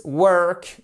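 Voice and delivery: "work" with the vowel made back in the throat; throaty English vowel. Shown as a demonstration. Teacher showing the correct work, English throat vowel. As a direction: say "work" from the throat, slow and high. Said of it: "c'est le work".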